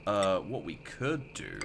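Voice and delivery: drawn-out, slow mock-formal delivery; lightly voiced stuffy gent addressing sir; odd put-on voice. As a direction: stretch it like a pompous gentleman. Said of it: "I don't know why I'm talking like this".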